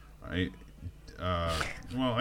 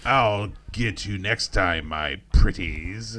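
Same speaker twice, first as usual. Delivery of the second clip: witch voice; much slower than usual. Retold or imitated. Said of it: "villain catchphrase quoted".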